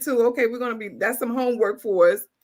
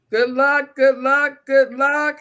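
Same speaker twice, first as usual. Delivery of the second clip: hyped good luck; 4 semitones higher, 4 dB louder, slower than usual. Real, not acted. Wheel spinning for winners.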